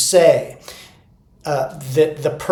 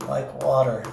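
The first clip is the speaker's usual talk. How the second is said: much softer, lower and hushed; soft like water; 4 semitones lower, 10 dB quieter than usual. Shown as a demonstration. Coach quoting Bruce Lee to teachers, soft and hushed. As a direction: let it flow out softly like water. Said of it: "you wanna be soft".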